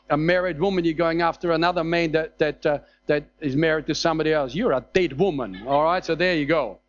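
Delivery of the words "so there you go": ordinary talk, nothing marked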